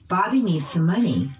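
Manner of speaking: "Bobby" and "money" stressed by pitch; noun stress. Shown as a demonstration. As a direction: drill model, peaks on "Bobby" and "money". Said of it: "using pitch change".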